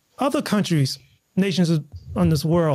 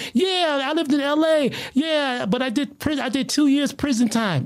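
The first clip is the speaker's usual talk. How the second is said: imitating the biker; 6 semitones higher than usual. Quotes the Taiwanese biker.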